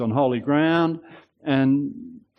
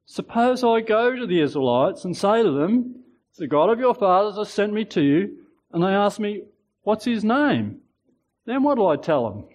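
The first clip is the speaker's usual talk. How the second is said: weaseling; 6 semitones higher than usual. Acted. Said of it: "weaseling out of it".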